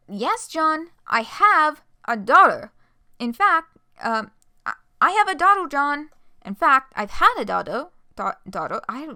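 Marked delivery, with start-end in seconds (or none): 0.1-6.1 loud, high angry outburst. Acted. Jade angrily confronting John. 6.4-7.9 loud angry declaration. Acted. Jade angrily confronting John.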